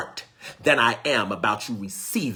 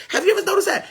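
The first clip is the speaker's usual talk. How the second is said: laughing, voice jumping high; 5 dB louder, much faster than usual. Real, not acted. Preacher laughing to the congregation, high and loud. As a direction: laugh it out to the crowd.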